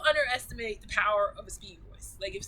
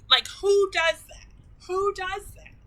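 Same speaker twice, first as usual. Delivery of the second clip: much higher, loud disbelieving delight; amazed; 11 semitones higher, 10 dB louder, slower than usual. Real, not acted. Amazed he built a PC.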